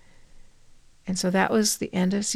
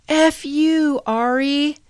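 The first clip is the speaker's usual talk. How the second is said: sudden high, loud curse at the dead wife; angry outburst; 8 semitones higher, 6 dB louder, much slower than usual. Retold or imitated. Widower cursing his late wife at her memorial, loud angry outburst. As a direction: spit it out in shock. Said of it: "And he goes".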